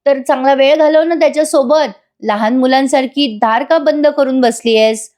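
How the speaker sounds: lightly acted sweet-talk laced with taunts; sweet taunting. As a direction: imitate sugary coaxing with a dig. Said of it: "गोड गोड पण बोलते आणि काव्याला taunt पण मारते".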